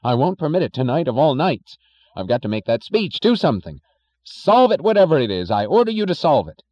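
loud, high furious orders; angry shouting. Acted. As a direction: roar the orders at them. Thompson ordering engineers, furious.

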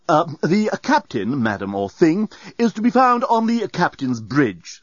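slow icy robot logic; cold. Acted. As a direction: correct them coolly. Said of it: "said the doorbot coldly".

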